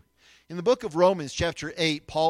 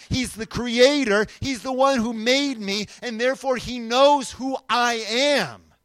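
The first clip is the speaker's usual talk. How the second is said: impassioned declaration as Paul; 5 semitones higher, 6 dB louder than usual. Acted. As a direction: preach it out, every phrase punched. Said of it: "and he says".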